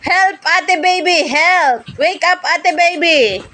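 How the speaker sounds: high playful mock cry for help; pretend cry for help. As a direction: call out to big sister as if in danger. (kunwaring humihingi ng tulong sa mataas na boses)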